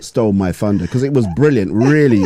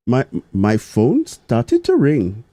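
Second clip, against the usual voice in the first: put-on slow, higher-pitched Indian accent; 4 semitones higher, slower than usual. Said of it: "I'll try my best to do the Indian accent".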